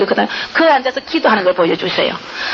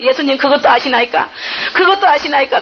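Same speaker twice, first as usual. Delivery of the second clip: raised, pleading cry to Jesus; a woman weeping in a vision asks Jesus, pleading and raised; tearful prayer; 4 semitones higher than usual. Retold or imitated. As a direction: plead through tears, voice climbing. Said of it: "하면서 막 울었어요".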